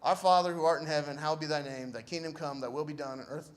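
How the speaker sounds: even, measured recitation; recited prayer. Retold or imitated. Shot man prays in the ambulance, evenly recited prayer.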